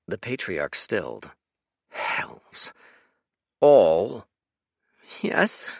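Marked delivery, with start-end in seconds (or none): 1.9-2.7 unvoiced stunned curse; breathless whisper. A narrator's reading. Patriarch stunned. 3.6-4.3 loud, shocked one-word question. A narrator's reading. Patriarch shocked. 5.2-5.6 sniffling. A narrator's reading. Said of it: "sniffed the boy".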